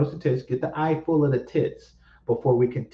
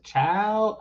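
mock church lady; 5 semitones higher than usual. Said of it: "somebody said".

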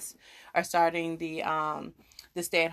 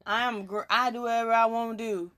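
attempted Texas accent, slightly raised pitch; 4 semitones higher than usual. Host imitating defiant Texans, put-on Texas accent. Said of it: "that's my Texas accent".

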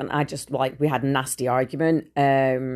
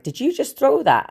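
much higher, louder incredulous shout; shocked yell; 12 semitones higher, 4 dB louder than usual. Retold or imitated. Confronting the child on the stairs, high shocked shout.

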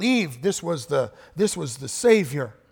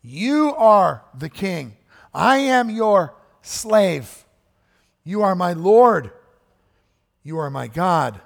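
loud, slow and higher, each line proclaimed; fervent declaration; 3 semitones higher, 7 dB louder, slower than usual. Retold or imitated. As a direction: proclaim it as a servant to his king. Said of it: "Thomas is saying".

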